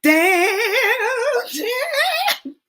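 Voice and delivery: loud high disbelieving curse, half laughing; dismayed exclamation. Retold or imitated. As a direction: curse at the lost chance. Reacting to missed chance.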